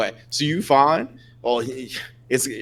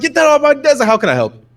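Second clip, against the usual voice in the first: very high-pitched, loud, shrill yell; 13 semitones higher, 7 dB louder than usual. Voicing a newsroom worker yelling across a chaotic room: yelling at someone. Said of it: "yelling at somebody else".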